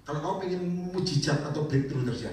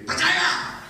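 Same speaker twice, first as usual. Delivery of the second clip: sudden high breathy cry; Marta exclaiming; 8 dB louder than usual. Retold or imitated. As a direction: blurt it out high, caught off guard. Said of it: "Marta langsung gini".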